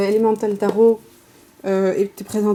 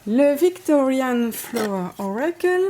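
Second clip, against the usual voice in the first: slow, slightly higher English title in a real French accent; 4 semitones higher, slower than usual. Real, not acted. Vlogger naming an English oracle deck for viewers, French-accented English. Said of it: "désolée pour mon accent terrible".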